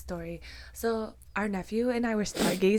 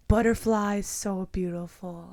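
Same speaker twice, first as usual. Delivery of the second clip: put-on slow, drawn-out little boy voice; each word slow like a two-year-old; lightly voiced toddler, slow and careful; slower than usual. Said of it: "He's like".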